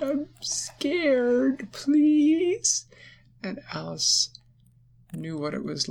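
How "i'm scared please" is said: much higher, louder tiny pleading; tiny bug begging, much higher; scared centipede. Acted. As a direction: beg in a small frightened voice. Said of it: "And the centipede said".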